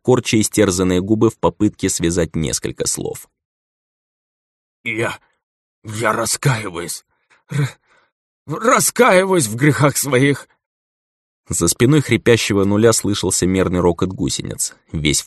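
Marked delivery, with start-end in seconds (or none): 4.8-10.5 slow, high gurgled confession; gurgling tentacle alien. A narrator's reading. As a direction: gurgle the words through blood. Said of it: "пробулькал". (булькающий, хрипящий голос)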